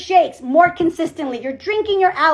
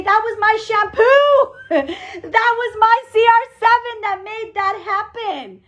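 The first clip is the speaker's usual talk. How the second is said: high, gleeful boast with a laugh; proud exclamation; 5 semitones higher than usual. Acted. Team member claiming credit before the crowd, proudly exclaiming. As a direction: crow it proudly, stretching it out. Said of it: "you're gonna be able to say".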